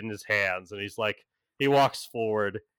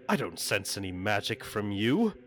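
haughty angel. Acted. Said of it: "He's just like".

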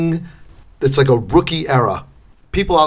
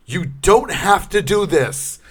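mock pleading; 4 semitones higher, slower than usual. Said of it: "trying to corner them with logic".

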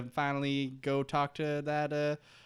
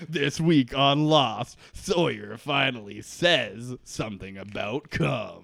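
slow, louder promo voiceover; trailer announcer; 4 semitones lower, 3 dB louder, slower than usual. Pretend.

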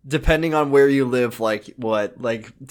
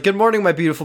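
mock doting mother; 6 semitones higher, much faster than usual.

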